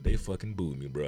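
low, quiet and deflated; dejected confession. Retold or imitated. Comic telling his friend about the booing, dejected.

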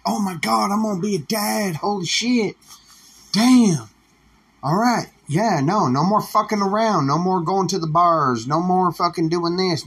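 high, thrilled rush of a man about to be a dad; excited new dad. Retold or imitated. Guy hearing he'll be a dad, excited and high. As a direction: gush like he just heard he's gonna be a dad. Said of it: "He's all like".

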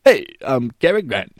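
a hint of a tipsy robotic movie star; mock Cary Grant, stiff and slurred; drunk robot Cary Grant. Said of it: "He sounds like".

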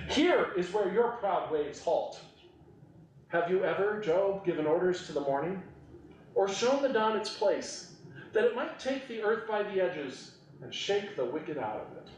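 a weighty reading of God questioning Job; forceful God from the storm. Acted. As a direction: proclaim it like thunder from a storm. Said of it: "God says".

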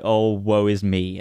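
slow, mocking whiny sigh; mock her moping; mock self-pity. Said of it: "She's so pity party".

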